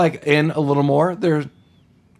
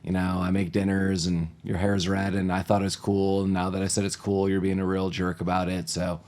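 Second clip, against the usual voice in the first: low, softer, resigned ramble; weary mom placating; 4 semitones lower, 6 dB quieter than usual. Acted. Overworked mom answering her sulky daughter, resigned and quiet. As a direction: placate quietly, running on under your breath. Voicing the worn-out mother placating.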